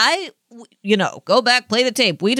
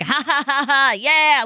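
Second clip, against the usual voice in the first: higher mock laugh and cheer; retold gleeful reaction; 5 semitones higher than usual. Co-host re-enacting reacting to the episode in bed, gleeful. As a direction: re-enact whooping alone at the screen. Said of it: "audibly responding, laying in my bed. I was like".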